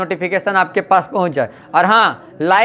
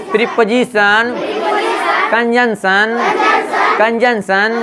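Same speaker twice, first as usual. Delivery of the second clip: each term drawn out with a lifted ending; measured repeat-after-me delivery; say-along drill; slower than usual. Shown as a demonstration. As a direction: lead the class through a chant. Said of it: "बोलिए हमारे साथ".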